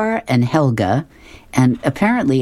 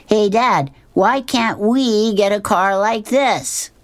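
put-on higher, slow, eager boy asking; a hopeful kid pleading with his dad; kid's voice; 9 semitones higher, slower than usual. Curtis showing Dad a car picture, higher and eager. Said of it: "Curtis says".

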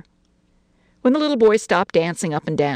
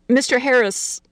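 higher, tentative naming; cautious; 8 semitones higher, 3 dB louder than usual. A narrator's reading. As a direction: venture it cautiously. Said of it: "she added cautiously".

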